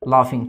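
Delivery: laughing said "lafing", the gh as an f sound. Shown as a demonstration. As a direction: say laughing with a clear f for the gh. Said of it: "वो फा की आवाज़ निकालेंगे". (laughing में जीएच को फ की तरह बोलें)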